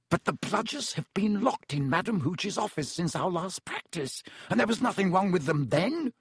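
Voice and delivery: a touch of nervous disbelief; anxious. Acted. Wood puzzling over the bludger, mildly anxious. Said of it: "said Wood anxiously".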